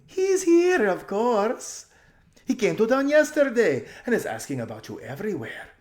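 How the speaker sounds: high, loud, laughing through words; giggling society lady. A narrator's reading. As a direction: giggle helplessly at the joke. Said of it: "went off into terrible giggles".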